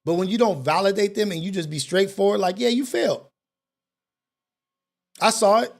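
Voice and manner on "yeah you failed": cold statement. Retold or imitated. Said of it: "a cold statement".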